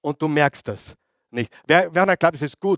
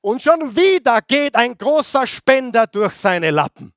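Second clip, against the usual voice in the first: high, loud, rising outrage; fired-up preaching; 8 semitones higher, 4 dB louder than usual. Real, not acted. Preacher telling the church about Judas's lost donor, loud and high. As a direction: build the point up like a sermon climax.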